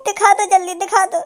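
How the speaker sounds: mock-weeping plea; staged tearful pleading. Dhanua begs auntie to show amma's face, mock tearful. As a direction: beg in put-on grief. Fake mourner begs to see amma.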